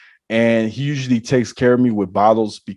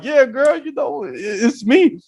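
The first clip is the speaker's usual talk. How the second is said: excited acknowledgement; 14 semitones higher than usual. Retold or imitated. He answers her excited recognition.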